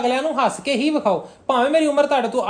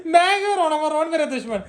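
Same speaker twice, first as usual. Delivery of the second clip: higher-pitched mock-mother voice; mimicking tearful mother; 4 semitones higher than usual. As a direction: teasingly imitate a mother denying she cries. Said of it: "ਰੋਈ ਤੇ ਜਾਂਦੀ ਹੈ, ਅੱਗੋਂ ਕਹਿੰਦੀ". (ਰੋਂਦੀ ਮਾਂ ਦੀ ਨਕਲ)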